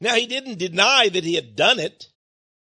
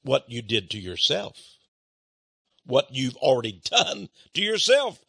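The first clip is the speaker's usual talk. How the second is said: very calm; 6 semitones lower than usual. Retold or imitated. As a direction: calmly state the hard truth to him. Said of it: "I very calmly said".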